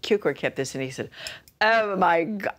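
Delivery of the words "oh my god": louder, higher alarmed cry; startled. Retold or imitated. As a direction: gasp it out in alarm. Cukor's alarm retold.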